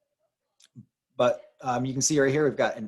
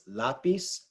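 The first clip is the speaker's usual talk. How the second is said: lapis said slowly, stressed on la-; Spanish lapis, leaning on the first syllable; 4 dB quieter than usual. Shown as a demonstration. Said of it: "The inflection's on that la syllable".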